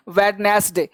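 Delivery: "वेडनेसडे" with the D sounded, wed-nes-day; fully sounded pronunciation. Shown as a demonstration. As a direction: say all three parts of "वेडनेसडे". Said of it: "बहुत लोग इसको बोलते हैं". ("वेडनेसडे" में ड का पूरा उच्चारण)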